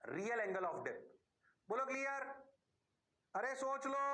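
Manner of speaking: usual speaking voice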